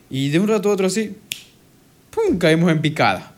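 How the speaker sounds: a lively, dramatic build to the crash; dramatic burst. Real, not acted. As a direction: punch out the fall with a big ¡pum!. Sudden mood crash described.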